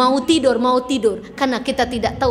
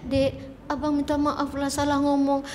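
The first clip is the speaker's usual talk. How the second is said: soft apology; 7 dB quieter than usual. Shown as a demonstration. Husband apologising to crying wife.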